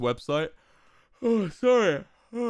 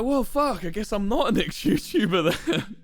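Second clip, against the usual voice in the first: mock defeated; 6 semitones higher, 5 dB louder than usual. Caving to the chat, laughing.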